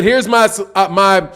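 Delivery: rushing in too hyped; excited. Real, not acted. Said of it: "let me calm down".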